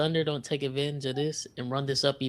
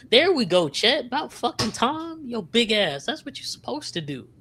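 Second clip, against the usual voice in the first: excited cheering; 8 semitones higher than usual. Real, not acted. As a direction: cheer him on, pumped up. Cheering a player's dunk.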